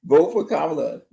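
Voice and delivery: a hint of Obama's scolding; mock lecturing tone; imitating Obama telling black men to vote; lightly voiced Obama. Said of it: "sent Obama out to chastise black men".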